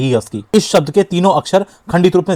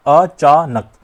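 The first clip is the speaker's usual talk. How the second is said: "अचानक" with stops, अ, चा, नक; halting syllables; 3 dB louder, much slower than usual. Shown as a demonstration. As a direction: pause between the syllables of "अचानक", नक whole. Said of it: "केवल इतना तोड़िए". ("अचानक" रुक-रुक कर अ-चा-नक बोलें)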